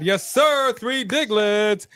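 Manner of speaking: high-pitched, drawn-out "yes, sir"; big excited hype-man call; hyped shout-out. Real, not acted. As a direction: celebrate the donor, stretching the words out. Hyped super chat shout-out.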